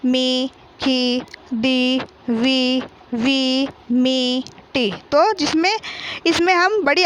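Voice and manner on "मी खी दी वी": slow, stretched मी, खी, दी, वी with a drawn-out ई; long ii vowel. Shown as a demonstration. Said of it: "इसको इसी प्रकार बोलेंगे".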